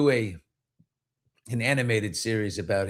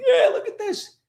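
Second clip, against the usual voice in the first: put-on excited kid. Kids showing off ball.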